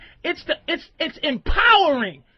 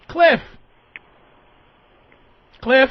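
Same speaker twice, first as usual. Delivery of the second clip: calling out; 7 dB louder than usual. Real, not acted. Calling the caller on line.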